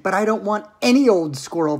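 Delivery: put-on bratty girl's loud demand; shouted. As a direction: shout it like a spoilt child, moderately loud. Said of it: "Veruca shouted".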